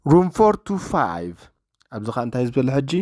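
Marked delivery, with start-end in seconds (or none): 0.1-1.3 slow, careful English with stress on room; slow repeat for learners. Shown as a demonstration. Teacher repeating a clip line slowly for students, slow and careful. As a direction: say it slowly so the class can copy.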